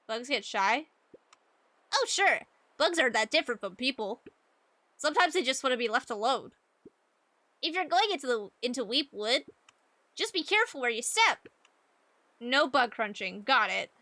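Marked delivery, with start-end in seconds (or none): 1.9-13.4 put-on fast, eager bug-loving kid. Voices bug kid Joey.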